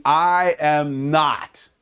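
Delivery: I am not, drawn out slowly, each word apart; slow denial. Retold or imitated. Preacher voicing Peter denying Jesus, slow drawn-out denial. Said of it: "Peter keeps saying".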